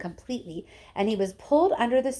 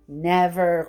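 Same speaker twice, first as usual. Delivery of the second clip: mild cry; 3 semitones lower, 5 dB louder than usual. Acted. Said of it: "cried Mister Wonka".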